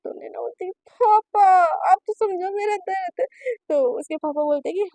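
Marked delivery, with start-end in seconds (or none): 1.0-3.3 higher, whimpering; mock tearful plea. Naina pleading with her father to understand her pain, mock tearful. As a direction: whine for sympathy.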